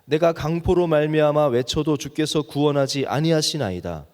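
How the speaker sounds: measured, solemn Bible reading voice; scripture reading. Acted. Preacher reads Habakkuk's lament to the congregation, solemn reading.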